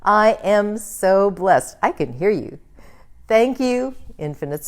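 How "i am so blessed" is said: slow, loud, higher declaration of blessing; affirmation. Acted. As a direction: proclaim each word with joy. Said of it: "Let's say that again".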